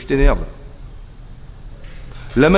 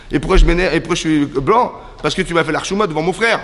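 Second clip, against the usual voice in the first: mildly outraged, pitched up; indignant retort; 4 semitones higher than usual. Acted. Caïn answering God after humiliation, indignant. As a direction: throw the question back, aggrieved.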